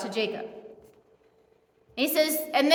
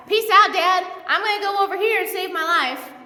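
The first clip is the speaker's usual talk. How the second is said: mock breezy farewell; 5 semitones higher, 4 dB louder than usual. Mocking Jacob leaving his dying dad.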